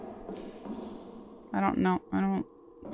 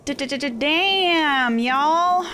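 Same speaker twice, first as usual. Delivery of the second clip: stuttered exclamation; 7 semitones higher than usual. Real, not acted. After a scare.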